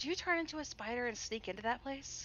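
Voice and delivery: quiet whisper in a character voice. Speaking in character while walking out, whispering to a party member: whispering in character. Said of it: "I kinda whisper over to Annie".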